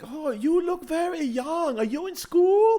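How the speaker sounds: high, slow, sweet waitress voice; imitating waitress. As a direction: coo it like a flattering waitress. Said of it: "she's like".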